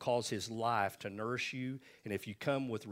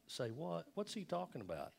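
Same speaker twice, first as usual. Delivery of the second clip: higher, softer, puzzled "say what?"; mock baffled disciples; 7 semitones higher, 7 dB quieter than usual. Disciples puzzled by Jesus' teaching, mock disbelief. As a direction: play the confused disciples, lightly.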